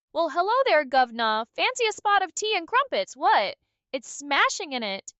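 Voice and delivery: hammed-up British accent, bad-movie style; over-the-top British accent offering tea. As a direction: play a cheesy British gent. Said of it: "asked you to do a British accent".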